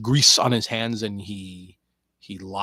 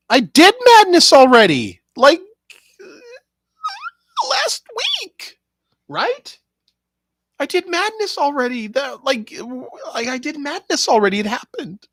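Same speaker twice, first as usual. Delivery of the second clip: very high, squeaky protest; hammed-up protest; 11 dB louder than usual. Objecting that Madness was done last week, high mock-upset squeal. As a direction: squeal it in exasperated disbelief.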